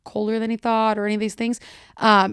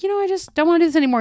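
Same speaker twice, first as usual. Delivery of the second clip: weary brush-off; 8 semitones higher, 3 dB louder, much faster than usual. Retold or imitated. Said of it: "He's like".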